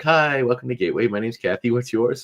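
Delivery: mock a customer-service hello; Gateway phone agent. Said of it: "the woman's like".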